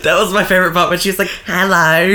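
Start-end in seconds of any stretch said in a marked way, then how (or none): 1.5-2.1 put-on English accent hello. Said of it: "She said it in a little English accent".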